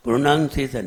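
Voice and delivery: प्रोनाउंसिएशन said "pro-nan-se-san", run together; low, unstressed प्रोनाउंसिएशन as "pronansesan"; mispronounced. Shown as a demonstration. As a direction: slide through प्रोनाउंसिएशन with an o in the first syllable. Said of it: "फिर गलती कर दी".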